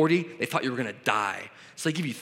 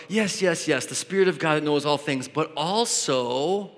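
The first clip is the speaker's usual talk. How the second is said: hedging agreement. Acted. Preacher mimics a false teacher adding conditions, hedging agreement. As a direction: agree readily, then stretch out the catch. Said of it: "if the person is preaching is like".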